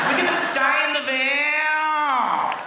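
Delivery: very slow Australian drawl stretching the vowels; slow drawling Australian accent. Retold or imitated. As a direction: lean into each Aussie vowel. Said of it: "they're just like".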